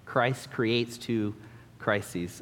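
"Christ creates two crises" said again slowly, "crises" falling away; slow repeated emphasis. Shown as a demonstration. Preacher repeating his point for the congregation, slow emphasis. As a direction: echo the point, unhurried. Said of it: "I enjoyed that, uh, alliteration".

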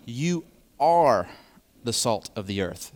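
"are" leaned on, rising then falling; stress on are. Shown as a demonstration. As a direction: preach it as You ARE the salt. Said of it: "Emphasis on the are".

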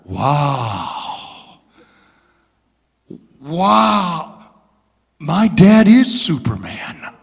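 put-on a kid in awe of his hero; awestruck boy. Son staring at the dad who rescued him, awestruck. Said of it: "I looked at him".

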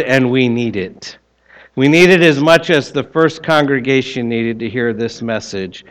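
prayer. Acted. Pastor's prayer after reading.

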